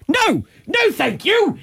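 high, airy no thank you; a lightly hammed-up prim refusal; mock polite refusal. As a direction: brush it off with sing-song politeness. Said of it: "And I went".

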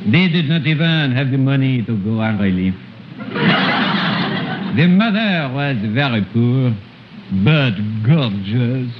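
put-on storyteller with a thick French accent throughout. Comic uncle retelling Jack and the Beanstalk in French accent. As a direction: tell the fairy tale in broken French-accented English.

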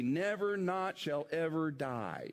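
firm beats on "never not" and "ever"; emphatic. Acted. Preacher repeating Jesus's promise to Martha, emphatic. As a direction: press each negative home. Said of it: "He's emphatic".

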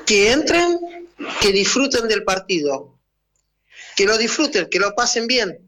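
arenga improvisada, tono más agudo; arenga de técnico. Pretend. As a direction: dar aliento como técnico, con pausas entre consignas. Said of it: "¿Cuál sería la arenga?". (arenga de director técnico a sus jugadores, en español)

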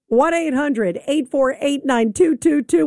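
each digit set apart, slowly; slow number read. Shown as a demonstration. Host giving listeners the call-in line, slowly and clearly. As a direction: spell out the number slowly for callers. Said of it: "host reads call-in number".

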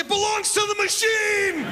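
high, theatrical shouted declaration; grand proclamation. Retold or imitated. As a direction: proclaim it like a solemn decree. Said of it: "I'm like".

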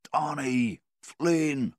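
loud, high-pitched holler for the other men; yelling for help. A narrator's reading. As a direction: call out as far as your voice carries. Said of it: "in his deepest voice, he yelled".

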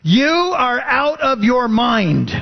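high, slow, mock outburst at Paul; loud outburst. Festus cutting off Paul's defense, mock loud outburst. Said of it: "Festus said in a loud voice".

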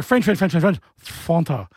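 mock French chatter ending in "Fonta"; imitating a Frenchman with nonsense filler words; French accent. French bloke replying to his mate, mock French accent. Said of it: "And he's gone like".

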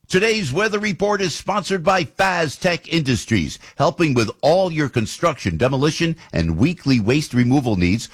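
punchy announcer-style sponsor read. Acted. Host introducing the weather sponsor, ad read. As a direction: deliver it as a radio sponsor spot.

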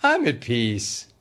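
lightly mocking inner peace; a hint of a zen guru; mock serene Gino. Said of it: "expect Gino to say".

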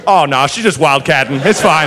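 low, folksy shrug-it-off voice; imitating the unfazed Southern cop; borrowed Southern nonchalance. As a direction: play down the danger with easy calm. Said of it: "And I'm like".

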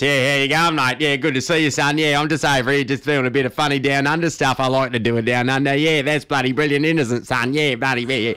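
hammed-up broad Australian bloke; overdone Australian larrikin banter; broad Australian accent. Shown as a demonstration. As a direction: lay the Aussie accent on thick for the crowd. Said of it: "and I talk like this".

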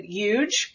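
huge said the French way, no H at the start, slow; French pronunciation. Shown as a demonstration. Showing her kindergarten French huge, no H. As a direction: drop the H in huge, as a French speaker would. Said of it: "in the French way without the aspiration at the front".

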